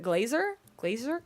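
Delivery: glazer in two syllables with a z, rising; trying out glazer. Retold or imitated. Guessing at the British pronunciation, tentative glazer. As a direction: tentatively sound out glazer, z in the middle. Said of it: "is it glazer".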